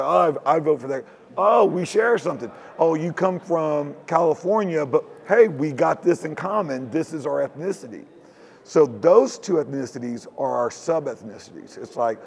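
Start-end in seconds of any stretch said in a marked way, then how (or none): 0.0-8.0 mock delighted. Imagined voter finding common ground.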